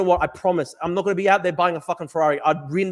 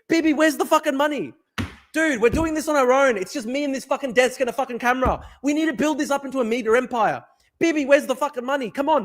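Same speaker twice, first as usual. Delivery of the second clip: mock desperate plea; 8 semitones higher than usual. Real, not acted. Mock-begging Bibi for money.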